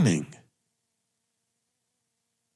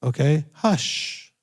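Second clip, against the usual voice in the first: calming reassurance; 4 semitones higher, much slower than usual. Retold or imitated. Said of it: "It was".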